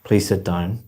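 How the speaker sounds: curt, unfriendly request; rude. Shown as a demonstration. Teacher demonstrating bad intonation to a student, rude. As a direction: make the request sound rude, with no lift. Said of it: "sound very rude".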